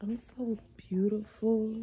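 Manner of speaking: whispered self-praise; whispered to the mirror, pleased. Real, not acted. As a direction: breathe it to yourself, no voice. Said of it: "admiring self".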